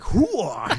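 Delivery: "Hooer" with exaggerated oo vowel; umlaut-style oo. Shown as a demonstration. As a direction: overdo the oo in "Hooer". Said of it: "umlauts over the ooh".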